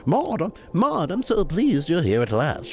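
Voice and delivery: high, delighted greeting; beaming welcome. A narrator's reading. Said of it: "she beamed, sounding as if she really meant it".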